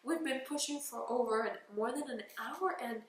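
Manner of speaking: tearful despair. Retold or imitated. To the team while pushing, retold tearful giving up. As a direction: plead that you can't go on. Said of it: "I started crying, saying".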